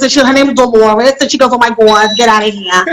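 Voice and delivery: mother character in a put-on accent; Dolores. Shown as a demonstration. Actor showing how another lady talks, put-on accent. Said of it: "she talks like this".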